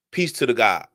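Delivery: low, soft greeting; subdued salute. Real, not acted. Speaker saluting the God, low and subdued.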